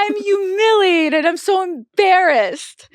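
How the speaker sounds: high, slow, drawn-out lament; mock humiliated wail. Passenger sure everyone heard, high mock wail. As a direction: wail it with hammed-up embarrassment. Acting out her embarrassment on plane.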